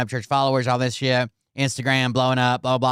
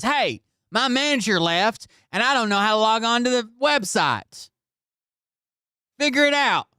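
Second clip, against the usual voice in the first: high mock-helpless plea, ending in a squeak; mocking whiny plea; 9 semitones higher than usual. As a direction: play him as clueless and helpless, climbing higher. Mocking Ryan asking the accountant.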